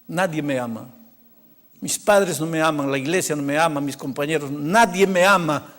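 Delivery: low, hurt list building to a firmer last phrase; wounded insistence. Retold or imitated. Boy tells pastor he is unloved, wounded and insistent.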